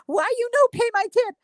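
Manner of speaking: high-pitched mock broken-English accent; squeaky mimicry of the nail tech's accent; mock Asian accent. Mock accent of nail salon worker.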